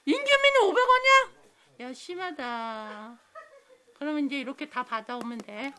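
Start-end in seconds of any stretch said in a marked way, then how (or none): 0.0-1.9 surprised. Real, not acted. 사다리 결과 보고 놀람.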